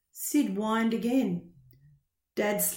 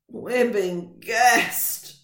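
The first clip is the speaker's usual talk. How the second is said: very slow, louder groan; 6 dB louder, much slower than usual. Acted. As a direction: drag the words out in a groan. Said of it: "groaned another man".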